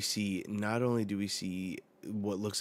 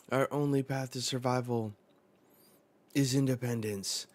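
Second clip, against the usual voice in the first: mildly raised battle slogan; rallying slogan; 4 semitones higher, 4 dB louder than usual. Acted. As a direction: proclaim it, pitched up. Reading a battle convoy's slogan.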